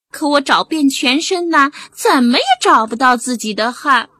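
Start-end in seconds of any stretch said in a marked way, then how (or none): 1.9-4.1 crying cat. Acted. Cat tearfully telling friends he can't find sweat. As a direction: break into a little cry.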